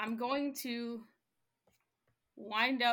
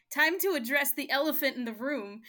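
loud, higher growling beast; 4 semitones higher, 10 dB louder than usual. Acted. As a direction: bellow it like a beast. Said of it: "I need my beast voice".

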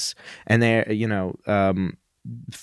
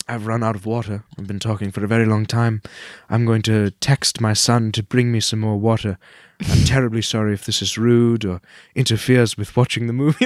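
bad Pierce impression. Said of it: "really bad impression of him".

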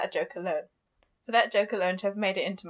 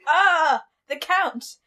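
lightly hammed-up posh lady; a touch of posh storytelling, opening high and loud; posh woman; 3 semitones higher, 4 dB louder than usual. Host reading about the Count, light mock-posh woman. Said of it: "reading it as a posh woman".

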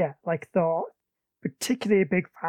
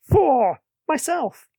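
high, loud, drawn-out comic cry; mock battle cry; 8 semitones higher, 6 dB louder, much slower than usual. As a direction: parody a heroic rallying yell. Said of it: "Loki standing next to him going".

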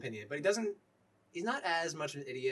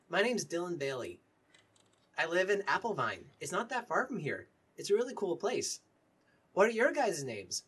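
lightly raised, friendly character voice; a slightly higher in-character voice; chatty young character introducing himself; 4 semitones higher, 4 dB louder than usual. Acted. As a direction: introduce yourself eagerly to new companions. Game master plays Dylan introducing himself.

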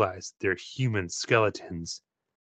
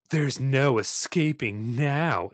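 cold voice; slower than usual. Acted. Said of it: "in a cold voice".

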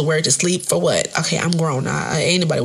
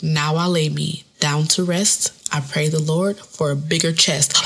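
mock prayer; slower than usual. Shown as a demonstration. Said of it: "you say".

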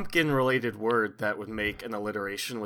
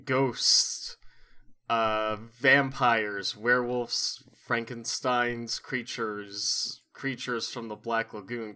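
theatrical spooky host welcome; horror host; slower than usual. Acted. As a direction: ham it up like a late-night horror host. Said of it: "I have to do a horror host bit".

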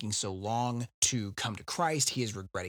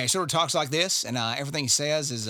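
Hickman's Southern accent; faster than usual. Shown as a demonstration. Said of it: "can you do the accent".

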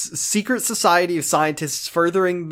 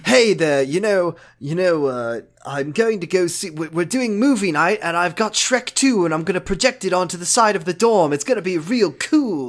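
slightly raised, eager RA patter; chummy RA; 2 semitones higher than usual. Retold or imitated. Cassidy proposing fun in the quad, chummy RA. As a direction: pitch dorm fun like an overkeen advisor. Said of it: "talks to Mark like he's his fucking R A".

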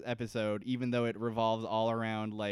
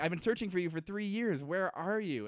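mock Penny; 7 semitones higher than usual. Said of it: "Penny's just like".

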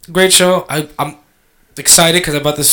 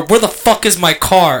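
tag; 4 semitones higher than usual. Retold or imitated. Retold irate call to towing company.

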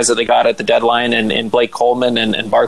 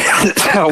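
sputtering choking cough; coughing after water went down wrong; 7 semitones higher than usual. Real, not acted. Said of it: "Oh, you're all right there".

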